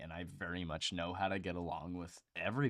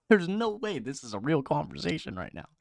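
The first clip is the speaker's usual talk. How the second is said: incredulous laughing quote; 10 semitones higher, 7 dB louder than usual. Retold or imitated. Podcaster retelling a ridiculous conversation, laughing in disbelief. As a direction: laugh it out, can't believe this guy. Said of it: "I'm like".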